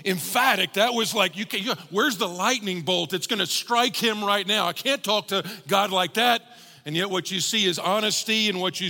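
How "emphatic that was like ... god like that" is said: lively, scandalised churchgoer's protest; mock shocked objection. Preacher voicing listeners shocked at blunt prayer, mock scandalised. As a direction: act out a listener taken aback. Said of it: "some of you are actually going".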